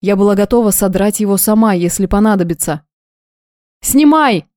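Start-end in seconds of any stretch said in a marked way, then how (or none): 3.8-4.4 roaring command; yelling. A narrator's reading. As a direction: scream it while lunging at him. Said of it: "заорала я".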